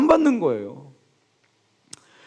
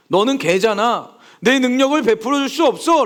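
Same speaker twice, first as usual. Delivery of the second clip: cold refusal; 5 semitones higher than usual. Retold or imitated. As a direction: coldly turn the woman away as Jesus. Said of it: "라고 하시는 거예요". (차갑게 거절하는 예수님)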